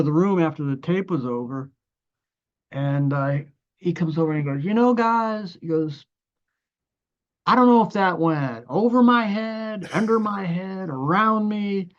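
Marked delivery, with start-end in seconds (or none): 4.6-11.9 a lightly voiced Joe, higher and slowing at the end; imitating Joe. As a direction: mimic the older musician being puzzled but polite. Joe gives his verdict on tape.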